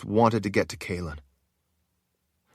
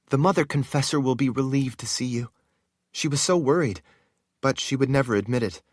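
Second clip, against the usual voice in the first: a hint of a higher woman's voice; lightly voiced sorceress; 5 semitones higher than usual. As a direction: speak with relief. Narrator voices Shale.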